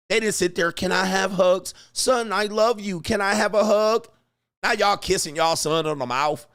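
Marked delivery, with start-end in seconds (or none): 0.7-4.1 mock a needy dad begging for affection; mock tender pleading. Dad asking his son for hugs, mock tender pleading. Mocking affectionate modern dads, by contrast.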